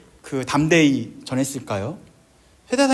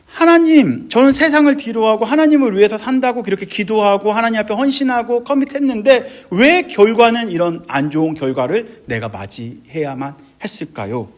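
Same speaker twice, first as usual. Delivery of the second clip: loud, high impassioned complaint, easing at the end; confronting God; 5 semitones higher, 6 dB louder than usual. Retold or imitated. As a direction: pour out a wronged believer's protest. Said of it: "하나님께 따지기도 한다라는 거죠". (큰 소리로 하나님께 따지는 호소)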